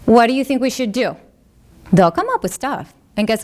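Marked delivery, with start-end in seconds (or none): 0.0-1.2 collaborative parent. Shown as a demonstration. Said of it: "Get them involved".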